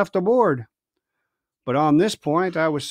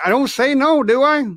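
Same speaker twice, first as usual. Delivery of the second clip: growling; 8 semitones higher, 5 dB louder than usual. Acted. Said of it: "growled the coxswain".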